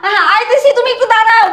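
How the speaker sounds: stalling call through a door; calling back. Acted. Daughter answers father waiting at the gate, calling back. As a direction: call out that you're on the way.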